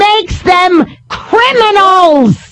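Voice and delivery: slow, emphatic shouting over someone; real exasperated argument, building to a shout; angry rebuttal. Real, not acted. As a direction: hammer each word home, drawn out. Host argues over the caller.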